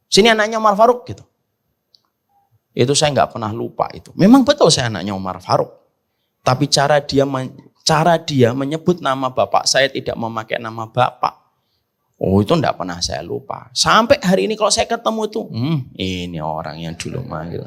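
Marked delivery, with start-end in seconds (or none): 0.1-1.1 teasing call from a senior. Retold or imitated. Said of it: "manggil saya begini". 15.5-17.6 muttered inner thought. Retold or imitated. Inner thought on meeting him.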